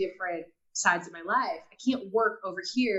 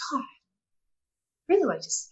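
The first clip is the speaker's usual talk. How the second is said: slow, breathless inner whisper; hushed slow whisper of a sudden hope; whispered thought; 5 semitones higher, slower than usual. Retold or imitated. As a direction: whisper it to yourself like a private wish. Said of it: "I thought".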